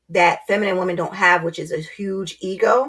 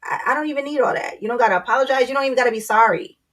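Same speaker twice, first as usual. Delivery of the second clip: imitating husband; 5 semitones higher, faster than usual. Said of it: "he'd be like".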